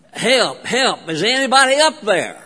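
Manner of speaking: mild mock yell, no real volume; mock yell for help. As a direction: call up for help in a half-hearted storyteller's yell. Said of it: "he started yelling".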